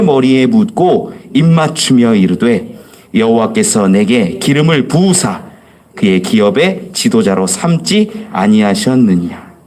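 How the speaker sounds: slow, even reading of the passage; scripture reading. Acted. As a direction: recite it steadily like a congregation. Reads scripture passage aloud. (느린 성경 낭독)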